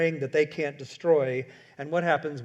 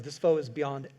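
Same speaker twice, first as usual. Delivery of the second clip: grave Gandalf warning; 2 semitones lower than usual. Retold or imitated. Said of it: "Gandalf goes".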